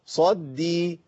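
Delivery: "sad-dii", no heaviness on the d; both dals light. Shown as a demonstration. Teacher repeating the correct form, light doubled dal. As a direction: say صدي with a thin doubled d. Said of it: "احنا عايزين نسمع الاثنين".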